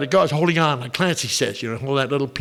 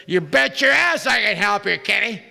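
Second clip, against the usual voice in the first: hint of a gruff drunk; 5 semitones higher than usual. Drunk gives his punchline advice.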